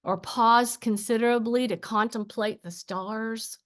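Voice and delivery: measured spoken-word delivery; poem reading. Acted. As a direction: read it as verse, pausing between lines. Reads own poem aloud.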